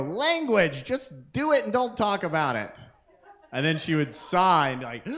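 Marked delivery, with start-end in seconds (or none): 0.0-2.8 weary mom. Retold or imitated. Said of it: "she would go".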